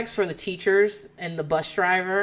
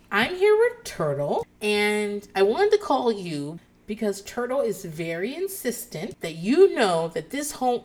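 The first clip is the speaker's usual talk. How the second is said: retold teacher. Teacher calling a parent about homework, measured retold voice. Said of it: "And it's this teacher".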